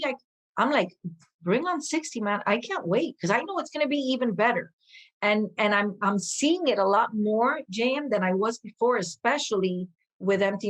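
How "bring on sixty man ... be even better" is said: excited. Retold or imitated. Eager about turning sixty.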